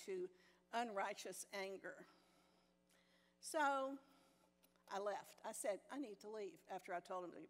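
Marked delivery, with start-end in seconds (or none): 5.9-6.6 soft, even and sweet; sweet and calm. Retold or imitated. Telling the workmen she's leaving, sweetly calm. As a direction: keep it gentle and calm though angry. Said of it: "Very sweetly, I might add, very calmly".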